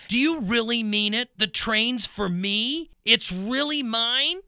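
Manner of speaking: put-on a boy who can't believe the train is his; amazed boy. Boy asking the stranger if the train is really his, amazed.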